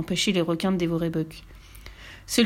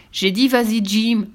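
louder, bossy repeat of the order; insisting order; 3 semitones higher, 5 dB louder, slower than usual. Acted. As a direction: lean on him, I said go. Buck insists angrily.

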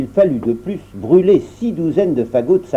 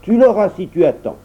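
dwarf promising; 7 semitones higher than usual. Acted. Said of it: "promit le nain".

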